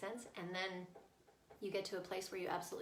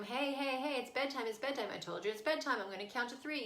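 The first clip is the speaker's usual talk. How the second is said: mildly raised nagging parent voice; calling across room; 4 semitones higher than usual. Retold or imitated. Parent calls child to bed across the room, insistent. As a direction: imitate a parent calling out bedtime orders. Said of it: "instead of calling across the room".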